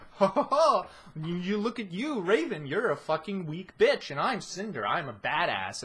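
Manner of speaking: hammed-up badass bragging; mocking Cinder. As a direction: sneer like a smug show-off. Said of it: "They're like".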